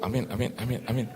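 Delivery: lightly chanted, bouncing amens; imitated choir of amens. Preacher mimics family behind him, chorused amens. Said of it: "Dari belakang kor gitu".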